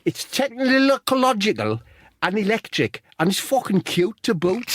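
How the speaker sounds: very high mock Scouse; high, hammed-up Scouse boast; Wade Rooney. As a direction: pitch a cartoonish Scouse accent right up. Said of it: "I'll do bits, see how you get on".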